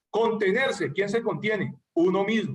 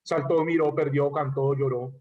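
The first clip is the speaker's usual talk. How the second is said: lower-pitched list, "Saltó", "miró", "perdió" each stressed on ó; stress on final O; 6 semitones lower than usual. Shown as a demonstration. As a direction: lean on the last vowel of "cantó" and "lloró". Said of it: "sino a oído".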